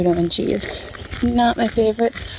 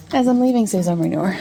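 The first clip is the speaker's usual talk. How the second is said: winded from walking uphill; out of breath. Real, not acted. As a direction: talk while short of breath. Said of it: "bear with me, I'm winded".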